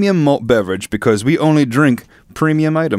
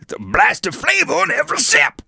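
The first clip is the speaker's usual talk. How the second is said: much higher, hammed-up commercial voice; mock ad read; 13 semitones higher, 3 dB quieter than usual. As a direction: sell it like a cheesy TV ad. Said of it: "The inflection was my own".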